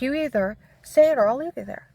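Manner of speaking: furious officer's ultimatum, reenacted; angry threat. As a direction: bark the ultimatum. Cop threatening her, retold.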